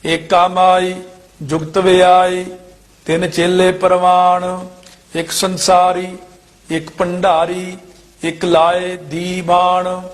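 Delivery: level, drawn-out chant-like reading; measured scripture recitation. Shown as a demonstration. Teacher reciting verses for students, measured chant-like recitation. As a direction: recite each phrase evenly with pauses.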